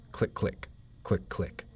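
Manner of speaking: whispered, very soft lock clicks; hushed clicking. A narrator's reading. Narrator fiddles with deadbolt in the dark, whispered clicks. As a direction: barely voice it, like a small mechanism.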